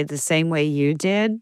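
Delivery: slow, snarky comeback. Retold or imitated. Retelling a reply to people asking how she became Jewish, snarky. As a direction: say it slowly with pointed snark. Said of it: "I've been as snarky".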